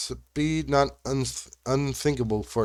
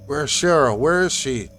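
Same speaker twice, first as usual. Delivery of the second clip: near yell; 3 dB louder than usual. Acted. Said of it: "a voice that was nearly a yell".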